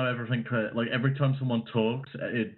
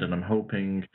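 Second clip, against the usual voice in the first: call dropping out. Real, not acted. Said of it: "Sorry, my mic cut out there".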